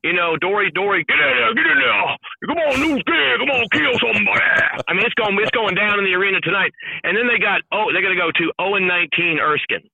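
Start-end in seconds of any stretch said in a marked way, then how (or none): 0.4-4.4 higher, pumped-up coach shout from the bench; mild mock sideline yell; mock coach urging. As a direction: fire up the new kid. Coach sending player in.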